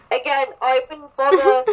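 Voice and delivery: put-on British accent; lightly acted British accent; Crowley. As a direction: redo it as a British character. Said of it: "oh, this is Crowley".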